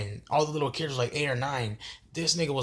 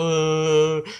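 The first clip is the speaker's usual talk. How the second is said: loud mock wail; drawn-out, half-hearted boo-hoo moan; imitated crying; 3 semitones higher, 7 dB louder than usual.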